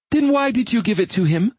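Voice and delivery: biting, sharp question, pitched high; caustic. Acted. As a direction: ask it with cutting scorn. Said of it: "Molly asked caustically".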